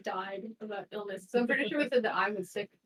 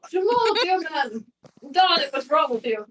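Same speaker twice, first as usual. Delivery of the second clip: doting doctor voice; 2 semitones higher, 5 dB louder than usual. Acted. Doctor character greets patient.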